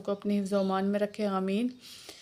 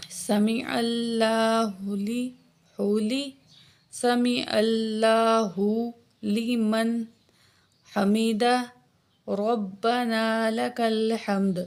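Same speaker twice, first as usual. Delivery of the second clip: slow, measured tasbih; prayer recitation; much slower than usual. Shown as a demonstration. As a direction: recite it three times calmly. Repeats rising phrases.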